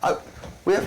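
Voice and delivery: agitated. Acted. Character raises voice.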